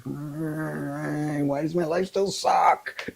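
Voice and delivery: high, slow, mock despairing plea; exasperated whine. Retelling her complaint to God, high slow mock whine. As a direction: moan it up to the heavens. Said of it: "And I said".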